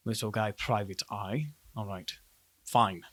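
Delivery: low, quiet officer's voice; unimpressed guard chief. Acted. Guard chief reading a private eye's badge, low and unimpressed. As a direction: size up the badge in a low, softened voice.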